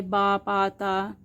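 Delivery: बा, पा, ता as separate sounds; letter sounds. Shown as a demonstration. Teacher listing Urdu letter sounds, बा, पा, ता spaced evenly. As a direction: sound out बा, पा, ता one by one. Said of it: "ये साउंड्स मिलकर".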